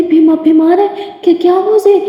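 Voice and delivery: put-on she can't believe the girl is ill; alarmed question. Geeta shocked girl is sick.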